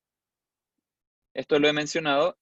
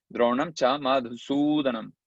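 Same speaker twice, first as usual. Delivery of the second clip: measured Sanskrit recitation; verse recitation; 2 semitones lower than usual. Shown as a demonstration. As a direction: recite it as one connected metrical line. Recites verse before counting it.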